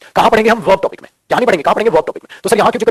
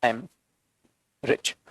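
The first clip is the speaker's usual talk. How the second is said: slow word by word; 7 semitones lower, 12 dB quieter, much slower than usual. Shown as a demonstration. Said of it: "मैंने बोला".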